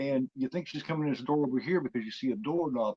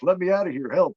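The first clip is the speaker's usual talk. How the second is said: mild mock yell, higher and louder; retold scream; 5 semitones higher, 7 dB louder than usual. Captive boy begs to be let out, mock screaming. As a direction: imitate a trapped kid yelling. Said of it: "He's screaming".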